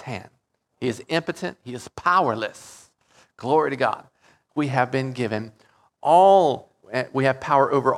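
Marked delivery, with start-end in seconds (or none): 6.0-6.7 all burst out loud and high; fervent preacher's cry on all; exclaimed all. Real, not acted. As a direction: shout the word all.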